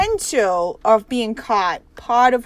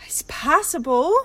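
whisper. Real, not acted. Whispered sigh, unvoiced.

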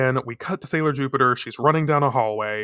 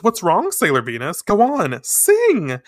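taunting villain; 6 semitones higher, 4 dB louder than usual. Acted.

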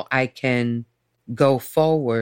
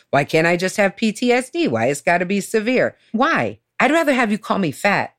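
retold protest; 4 semitones higher than usual. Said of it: "that's what put me over the top".

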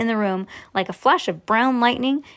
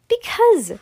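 high, louder drawn-out because; emphatic; 13 semitones higher, 5 dB louder than usual. Acted. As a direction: launch the explanation with flair. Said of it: "said Mister Wonka".

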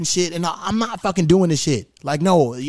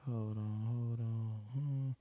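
very soft, low self-talk; barely audible, mind on something else; distracted muttering; 5 semitones lower, 20 dB quieter, slower than usual. Real, not acted. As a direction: murmur absently while searching. Muttering while searching his phone.

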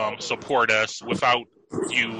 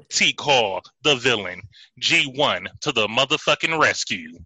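booming ring announcer intro; ringmaster; 3 dB louder than usual. Pretend. Podcast intro announcer call.

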